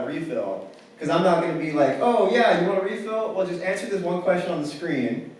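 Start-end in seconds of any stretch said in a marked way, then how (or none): 2.0-5.3 higher-pitched pretend helpfulness; mock obliging. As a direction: play an over-obliging employee, sarcastically. Imagined mocking reply to customer.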